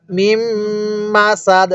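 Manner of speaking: long hummed মিম, then সাদ cut short on d; waqf stop. Shown as a demonstration. Teacher showing the stop, hummed মিম and clipped final d of সাদ. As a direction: hold the m, end crisply on সাদ without "din". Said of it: "ওয়াকফ করলে".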